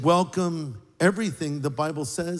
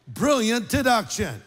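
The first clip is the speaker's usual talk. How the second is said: sarcastic; 4 semitones higher than usual. Acted. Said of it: "I'm being sarcastic".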